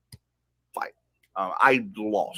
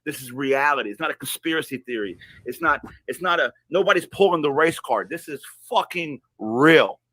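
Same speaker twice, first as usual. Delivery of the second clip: retold epiphany; 5 semitones higher, 4 dB louder than usual. Retold epiphany, building to a burst.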